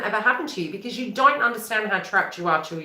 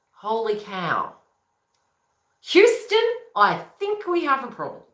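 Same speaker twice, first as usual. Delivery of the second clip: alarmed inner voice; 3 semitones higher than usual. Retold or imitated. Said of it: "the other aspect of you is going".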